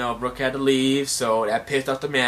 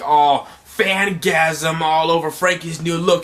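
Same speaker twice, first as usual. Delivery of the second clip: mock fangirling; 5 semitones higher, 6 dB louder, slower than usual. Voicing the excited fans.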